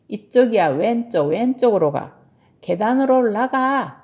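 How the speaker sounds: loud, bossy steering; calling out directions. Acted. Tilly steers her bear to the guest room, calling out directions. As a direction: call out each turn firmly.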